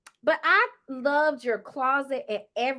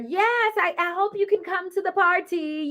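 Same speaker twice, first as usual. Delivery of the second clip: imitated invitation; 6 semitones higher than usual. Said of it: "telling her".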